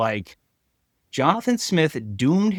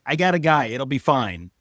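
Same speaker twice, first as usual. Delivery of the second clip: mock insistent coach; 3 semitones higher than usual. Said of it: "And is like".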